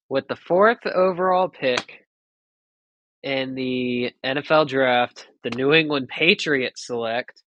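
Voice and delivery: slow, formal pick announcement; draft announcer. Pretend. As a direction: announce it like the commissioner.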